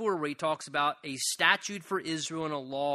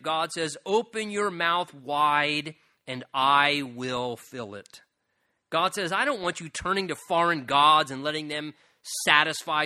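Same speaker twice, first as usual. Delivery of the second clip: preaching as God; 4 dB louder than usual. Acted. Preacher voices God commanding.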